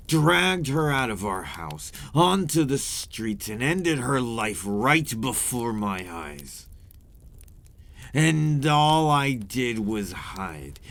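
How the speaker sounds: anguished, building toward a cry; rising anguish. Acted. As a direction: let the pain of the memory build and spill over. Vampire recalls mother's killing.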